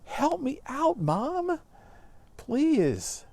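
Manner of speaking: put-on very high, pleading girl's voice; high-pitched pleading daughter; pleading Juliet. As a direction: beg your mother like a desperate girl. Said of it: "Juliet turns to her and says".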